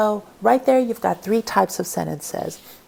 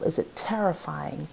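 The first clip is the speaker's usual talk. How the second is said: hushed whisper, as if something scary lurks; whispered tone example; 2 semitones lower, 6 dB quieter than usual. Shown as a demonstration. Teacher to class, showing a terrifying tone, whispered. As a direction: breathe the words to show a terrifying tone.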